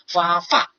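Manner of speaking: 发发 as a learner's effortful tone practice; laboured pronunciation. Retold or imitated. Teacher imitating a struggling foreign student, laboured 发发. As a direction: work at each 发 separately, overdoing its tone. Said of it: "发个音的时候发得特别费劲".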